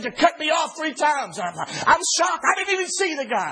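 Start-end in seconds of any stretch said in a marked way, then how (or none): 0.0-1.4 angry driver. Retold or imitated. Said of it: "he was as hot as a firecracker".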